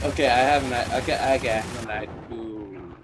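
muttering. Real, not acted. Fading to mutter.

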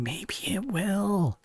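slow, high, sing-song. Real, not acted. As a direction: stretch it out playfully. Playful high slow line.

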